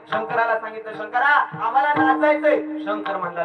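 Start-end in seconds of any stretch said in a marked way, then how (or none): 0.9-2.8 retold ghosts' plea. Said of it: "भूतं ओरडू लागली".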